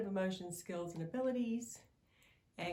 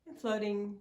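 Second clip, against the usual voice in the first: guided meditation. Acted. Guide leading listener to float over their timeline, guided meditation.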